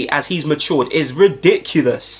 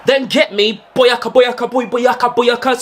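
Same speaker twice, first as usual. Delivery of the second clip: angry fan mangling name; 6 semitones higher than usual. Acted.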